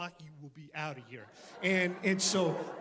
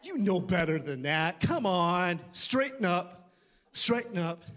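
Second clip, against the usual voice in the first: a firm self-scolding, louder; scolding himself; 5 dB louder than usual. Retold or imitated. Pastor showing how he scolds himself, firm self-rebuke. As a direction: tell yourself to straighten up. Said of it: "I'll say".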